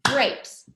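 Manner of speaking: grapes as one single beat; "grapes" in one falling beat; one clapped syllable. Shown as a demonstration. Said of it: "we just clap one time".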